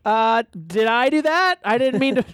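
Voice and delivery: nerdy sitcom Urkel voice; slow Urkel whine. Pretend. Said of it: "Now you sound like Urkel".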